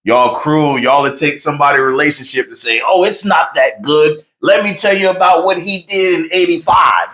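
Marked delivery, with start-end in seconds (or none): 2.8-7.1 mock gossip. Mocking gossip about husband's past.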